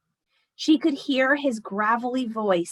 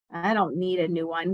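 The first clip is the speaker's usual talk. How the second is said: lightly voiced Grandma; 5 semitones lower than usual. Grandma refuses.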